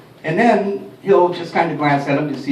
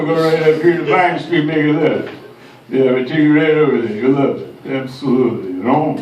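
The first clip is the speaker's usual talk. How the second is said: a put-on New York cabbie; lightly voiced gruff cabbie; a hint of a streetwise cab driver; unnamed cab driver voice; 3 dB louder than usual. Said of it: "you sounded like that".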